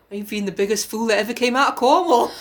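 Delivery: playful Cornish voice; Cornish accent. Shown as a demonstration. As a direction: put on a broad Cornish accent. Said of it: "You've got to say that bit with the cor".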